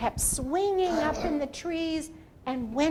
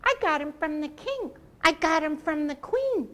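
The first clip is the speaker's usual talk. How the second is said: monkey talk; 4 semitones higher than usual. Acted. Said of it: "in monkey talk means".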